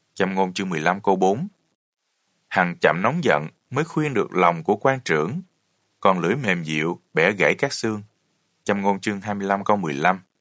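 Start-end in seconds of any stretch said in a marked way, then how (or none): none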